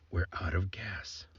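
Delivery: breathy hushed admission, slow; whispered. Retold or imitated. Dad whispers to son that they ran out of gas. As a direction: whisper it like a sheepish confession.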